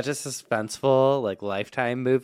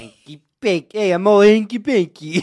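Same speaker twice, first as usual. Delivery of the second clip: hammed-up playful; 9 semitones higher, 11 dB louder than usual. Playful hammed-up name gag.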